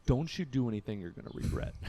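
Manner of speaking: quiet stone-cold warning; cold, understated threat. Retold or imitated. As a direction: warn him coolly, low-key and controlled. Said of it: "like, stone cold".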